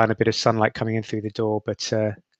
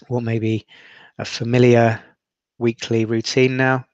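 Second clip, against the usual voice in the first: steady meditation guide, long pauses between phrases; guided meditation. Acted. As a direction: lead them through breathing, leaving space after each instruction.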